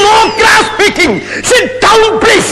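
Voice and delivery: high, drawn-out call for order; stern courtroom order. Acted. Judge silencing a squabbling lawyer, high commanding call.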